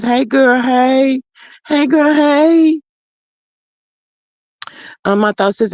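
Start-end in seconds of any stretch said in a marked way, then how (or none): 0.0-2.8 playful greeting. Retold or imitated. Playfully voicing a chat greeting.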